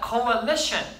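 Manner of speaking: "coalition" drawn out syllable by syllable; careful model pronunciation. Shown as a demonstration. Teacher models a word for students to repeat, careful pronunciation. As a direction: say "coalition" slowly with the middle A sounded. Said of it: "중간에 A가 있으니까 발음이 조금 달라요".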